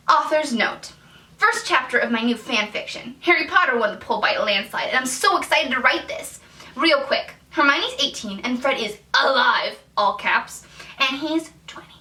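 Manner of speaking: lightly voiced excitable young teen author; a hint of a self-important fourteen-year-old; obnoxious fourteen-year-old. Reading her old author's notes to viewers, mildly obnoxious teen voice. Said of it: "in my obnoxious fourteen-year-old voice".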